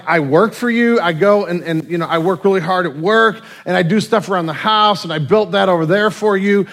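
aggrieved husband. Retold or imitated. Husband argues with his wife.

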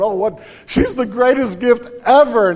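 high, loud smitten Adam praising his wife. Retold or imitated. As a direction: gush like a man in love. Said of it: "he's singing over going".

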